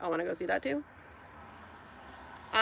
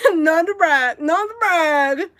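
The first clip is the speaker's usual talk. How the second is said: laughing, slow, louder mock brag; 6 semitones higher, 7 dB louder, slower than usual. Real, not acted. Confessing first Broadway show, laughing mock boast. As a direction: tease yourself through a laugh.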